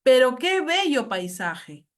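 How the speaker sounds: slow, emphatic admiration; admiring exclamation. Shown as a demonstration. Teacher giving an example of admiration, admiring. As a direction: draw it out in demonstrated admiration. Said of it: "Admiración, por ejemplo".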